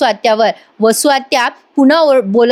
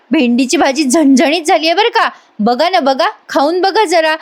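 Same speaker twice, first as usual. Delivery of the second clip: sweetly pointed dig, slightly higher; imitated taunt; 4 semitones higher than usual. Manini offering spicy okra to the aunt, taunting. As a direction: needle her under cover of offering food. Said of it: "हा टोमणा होता बरं का".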